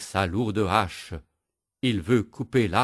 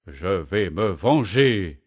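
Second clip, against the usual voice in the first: growling; 4 dB louder, slower than usual. Acted. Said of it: "gronde le bûcheron".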